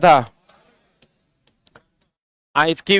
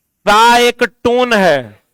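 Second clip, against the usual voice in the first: slow emphasis; 3 semitones higher, much slower than usual. Shown as a demonstration. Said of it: "समझा?".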